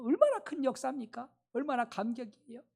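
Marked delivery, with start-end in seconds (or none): 1.5-2.6 softer awe. Acted. Same line, said softly.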